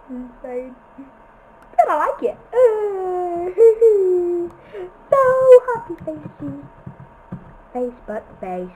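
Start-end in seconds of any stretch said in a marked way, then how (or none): 1.8-6.5 higher, laughing squeal; giggling. Real, not acted. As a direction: giggle through it.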